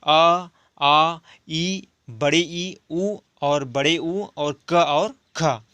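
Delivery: each letter drawn out slowly and clearly; slow, careful teacher's recital of Hindi letters. Shown as a demonstration. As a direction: sound out the letters one by one for the class. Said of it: "जैसे".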